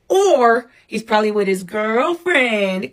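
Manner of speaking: put-on slow, teasing joke about the girlfriend; drawn out like a running joke; joking. Mother joking to her kids about dad's girlfriend, slow teasing. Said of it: "'cause we always used to say that, joking around".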